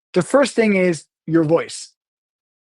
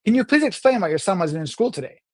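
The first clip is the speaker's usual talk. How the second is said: pointed, demanding request; stiff, higher-pitched official query; stern email reading; 3 semitones higher than usual. Shown as a demonstration. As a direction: read it as a curt demand. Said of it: "you hear the difference in tone".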